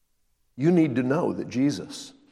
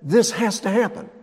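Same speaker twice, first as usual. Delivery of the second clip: a touch of firm resolve; firm Jesus; 8 semitones higher than usual. Retold or imitated. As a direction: state it as settled fact. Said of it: "He said".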